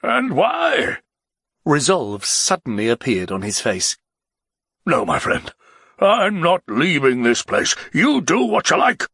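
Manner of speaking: a tipsy nobleman begging to ride away; the Baron, pleading. Acted. Baron resolute.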